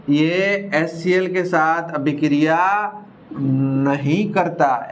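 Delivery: नहीं करता stretched out, slow and falling; slow emphasis. Shown as a demonstration. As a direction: drag out नहीं करता so it sticks. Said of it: "ध्यान रखना". (नहीं करता को खींचकर धीरे ज़ोर से कहना)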